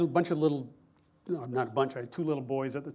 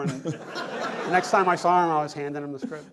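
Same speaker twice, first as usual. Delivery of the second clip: laughing; 3 semitones higher, 6 dB louder than usual. Real, not acted. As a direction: let the laugh carry the ending. Punchline told laughing.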